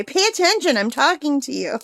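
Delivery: high, sharp mock scolding; bossy mom. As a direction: snap it like a nagging mother. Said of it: "Or she'll say".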